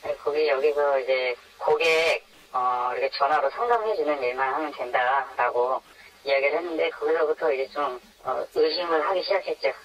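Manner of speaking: anonymized voice filter for protection; voice-altered. Real, not acted. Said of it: "음성 변조로 진행되는".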